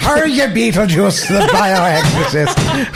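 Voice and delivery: high, slow leprechaun Irish; hammed-up Irish brogue through laughter; mock Irish accent. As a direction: tease with a cartoon Irish accent. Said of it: "Frost and Lucky Charms".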